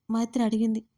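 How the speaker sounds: ordinary delivery, nothing marked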